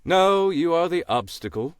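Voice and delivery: a dry, knowing crow voice; wise crow voice. Acted. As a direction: play a smug old crow. Crow character.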